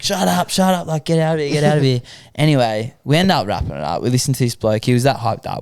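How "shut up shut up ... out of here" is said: higher-pitched mock exasperation; exasperated dismissal. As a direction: imitate a fed-up guard cutting them off. Exasperated guard cuts them off.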